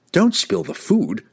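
high, drawn-out mock-angry cry; mock anger. A narrator's reading. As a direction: scold with playful, put-on outrage. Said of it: "cried Drizzt in mock anger".

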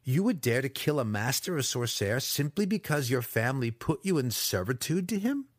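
affronted master challenging an underling; incredulous captive wizard. Acted. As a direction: press him in disbelief, rising at the end. Alton presses his assailant.

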